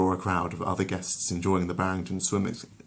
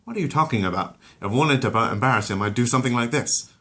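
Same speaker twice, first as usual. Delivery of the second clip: higher, louder dopey retort; Peter retorts; 4 semitones higher, 4 dB louder than usual. Acted. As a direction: argue back then show off.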